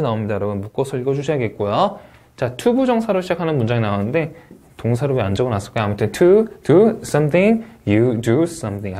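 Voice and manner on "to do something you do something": slow phrase reading, falling on "you do something"; rise then fall. Shown as a demonstration. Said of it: "하고 내려 읽어주셔야겠습니다".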